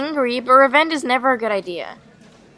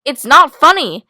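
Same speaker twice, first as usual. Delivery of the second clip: loud, slow, emphatic rebuke; raised, drawn-out anger; angry retort; 2 semitones higher, 10 dB louder, slower than usual. Acted. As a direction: tell them off forcefully. Quarrel with prankster.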